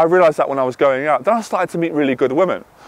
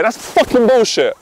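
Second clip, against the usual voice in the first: higher, slow and emphatic; passionate outburst; 6 semitones higher, slower than usual. Real, not acted. Man rejecting pickup-book advice to his audience, passionate. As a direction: let real passion burst out, stretching the words. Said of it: "Sorry, I'm passionate".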